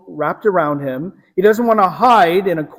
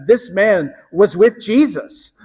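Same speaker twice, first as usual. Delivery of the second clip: retold accusation, pitched a little higher; abrupt accusation; 4 semitones higher, 3 dB louder than usual. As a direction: point him out in a slightly raised voice. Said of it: "very abru-, abruptly, she points him out".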